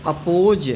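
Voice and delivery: अपोज starting on a short 'uh'; correct reading of oppose. Shown as a demonstration. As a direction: open अपोज with a schwa, then long o. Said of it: "ओपोज नहीं पढ़ेंगे". (सही उच्चारण, अपोज 'अ' से शुरू)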